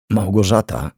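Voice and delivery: voiced name left hanging; unfinished start. A narrator's reading. Man starts telling the twin about her sister, faltering. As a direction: begin to explain, then break off. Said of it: "zaczął, ale nie dokończył".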